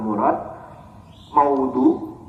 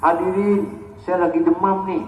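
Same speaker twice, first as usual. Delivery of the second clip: high-pitched announcement to the audience; higher, plaintive public appeal; mock public announcement; 7 semitones higher than usual. Shown as a demonstration. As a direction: broadcast the complaint to the whole congregation. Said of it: "Nggak begitu".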